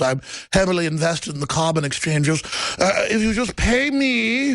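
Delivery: a hint of a plummy prince begging for money; mock Prince Charles. Host mocking Prince Charles to listeners, lightly voiced posh royal.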